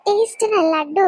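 slow, drawn-out relish of the sweet; exaggerated mock delight, stretched out; mock savouring. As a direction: savour it slowly to tease him. Teasing by savouring sweet loudly.

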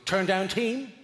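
lightly voiced questioning announcement; chambermaid's query. Chambermaid at the hotel room door, lightly imitated polite query. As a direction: offer it as a brief, neutral question. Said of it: "looks at me and goes".

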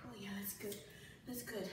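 breathless after the set; winded, catching breath. Real, not acted. Just finished a hard set.

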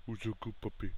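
soft, half-whispered praise. Acted. Player praising the puppy, hushed murmur.

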